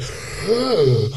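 loud, high gasp for air; exhausted gasp. Retold or imitated. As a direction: gasp like someone knackered after a stunt. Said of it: "He was like".

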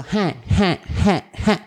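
"je" as a short breathy verbal tic; imitated "je" filler. Friend fed up with their verbal tic, imitated "je". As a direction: repeat "je" as separate little bursts. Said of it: "Dejen de decir je".

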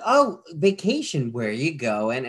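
fake-friendly small talk; mild salesperson mimicry; lightly mocking salesperson. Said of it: "they're like".

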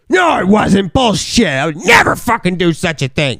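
high mock-offended shout, easing down; indignant denial. Acting out his indignant drunken denial.

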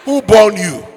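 loud, laughing scold; scolding mother. Acted. Mother scolding her son loudly through laughter. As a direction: bark at him with a laugh.

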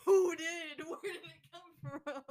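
laughing while asking; cracking up mid question. Real, not acted. Teasing sibling about trash.

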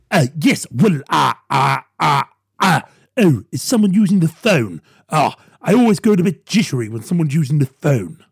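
a halting politician on dial-up; stalling Boris. Retold or imitated. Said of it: "like he's been plugged into dial-up".

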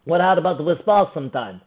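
imitated Russian accent. Russian challenges him to spar, imitated Russian accent. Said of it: "you terrifying Russian dude".

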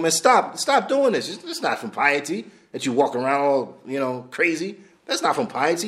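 retold scolding. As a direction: scold the fake humble man as Umar. Umar scolds the showy worshipper.

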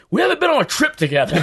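high, fast, laughing quote; exaggerated eager voice. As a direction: rush it out eagerly. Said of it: "you were like".

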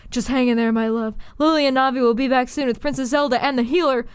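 calm your wife down in labour; soothing husband. Acted. Husband Link calming wife.

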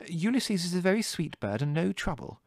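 high-voiced motherly protest; defensive. A narrator's reading. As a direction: defend the pet hurriedly, slightly hurt. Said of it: "put in Mother defensively".

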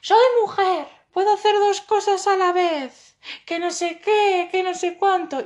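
high, loud, slow defiant comeback; indignant retort. Retold or imitated. Andrea talking back to hecklers, high indignant shout. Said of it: "Y empezó".

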